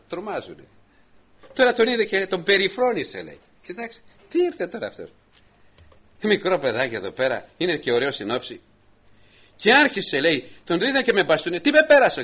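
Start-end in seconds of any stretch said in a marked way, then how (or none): 3.7-8.6 sneering giant. Acted. Goliath sneers at David. 11.6-12.2 high, loud indignant roar; offended giant shouting, high and loud; outraged giant. Acted. Goliath insulted by the staff.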